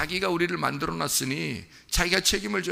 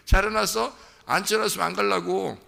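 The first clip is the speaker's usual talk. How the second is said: put-on cheeky child; 4 semitones higher, 4 dB louder than usual. Child bargaining with mother.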